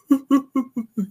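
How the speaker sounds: high wailing mock sob, brief; imitated ugly cry. Father demonstrating his sobbing to son, mock wail. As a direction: mimic the heaving ugly cry. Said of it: "that type of cry".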